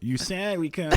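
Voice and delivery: put-on high whining child voice with a laugh in it; imitating a sulky seven-year-old; whiny kid. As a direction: complain like a kid who feels cheated. Dad voicing daughter's complaint.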